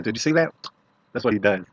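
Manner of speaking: usual speaking voice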